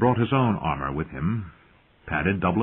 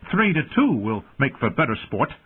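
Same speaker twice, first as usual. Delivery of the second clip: cheerful; 5 semitones higher than usual. Acted. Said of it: "the small boy said cheerfully".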